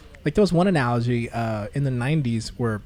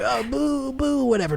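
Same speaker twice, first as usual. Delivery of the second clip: mock booing crowd; 10 semitones higher than usual. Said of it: "people would be like".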